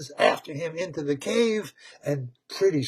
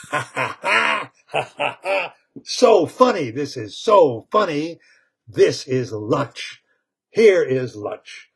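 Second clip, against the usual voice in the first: caveman laugh; 3 dB louder than usual. Retold or imitated. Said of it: "Grug says".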